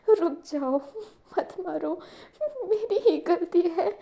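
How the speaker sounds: pleading cry. A narrator's reading. Stepmother begs, faking tears.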